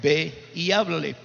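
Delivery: inner voice. Retold or imitated. God's voice inside telling the priest to go, slow and low. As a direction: spell out the order unhurriedly. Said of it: "una voz me decía por dentro".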